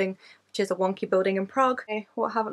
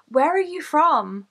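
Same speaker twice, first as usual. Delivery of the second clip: higher, louder, slow show-host question; trainer addressing child; 7 semitones higher, 5 dB louder, slower than usual. Retold or imitated. Trainer to a six-year-old at the dolphin show, imitated, high and loud. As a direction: imitate a trainer asking a little kid, pitched up and drawn out. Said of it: "I just remember the trainer saying".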